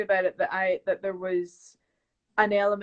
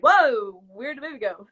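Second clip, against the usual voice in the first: mock astonishment; 2 semitones higher, 6 dB louder than usual. Actor imitating startled viewers at a jumpy edit, mock astonishment. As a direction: exclaim it like a baffled onlooker. Retold audience reaction to sudden change.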